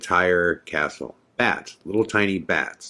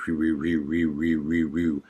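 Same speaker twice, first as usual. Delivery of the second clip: mock rumble; 2 semitones lower, 5 dB quieter, slower than usual. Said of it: "And the sound".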